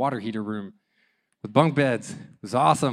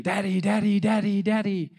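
put-on high, urgent child's cries for Daddy; mock toddler wail, much higher pitched; imitated toddler screaming; 7 semitones higher, 3 dB louder than usual. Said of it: "wakes up screaming".

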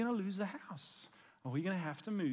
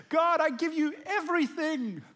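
earnest prayer; 9 semitones higher, 8 dB louder than usual. Retold or imitated. Retold teen prayer.

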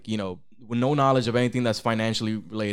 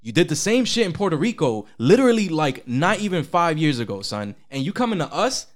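indignant mock rant, punching the accusations; imitating fuming investors. Retail traders accusing Wall Street of hypocrisy, fuming. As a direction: voice the outraged crowd confronting the bankers. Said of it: "fuming. They were like".

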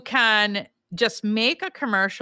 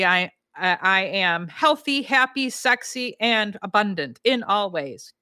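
slow affirmation. Shown as a demonstration. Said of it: "It could be".

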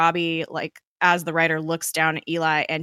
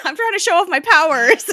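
higher, louder hammed-up boast; mock proud dad; 12 semitones higher, 9 dB louder than usual. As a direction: brag like a goofy dad. Mock dad bragging, loud.

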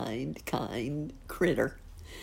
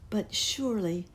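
tiny fairy voice; 4 semitones higher than usual. Acted. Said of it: "said the fairy".

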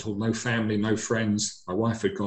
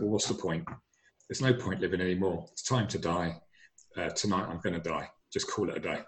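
quiet defeated giving up, getting softer and lower to the end; hopeless, fading; 3 semitones lower, 5 dB quieter than usual. Retold or imitated. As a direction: let it sink into resignation, voice dropping away. Despairing, giving up on life.

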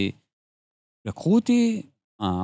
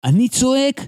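lightly voiced indignant child, higher pitch; retold defiance; 6 semitones higher than usual. Son refusing scout drills to his father, mildly defiant. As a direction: imitate a kid standing on principle.

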